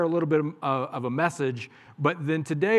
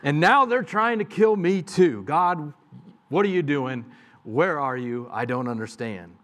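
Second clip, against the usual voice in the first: anguished complaint; 4 semitones higher, 5 dB louder than usual. Acted. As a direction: cry out to God in despair. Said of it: "crying out to God and kinda complaining".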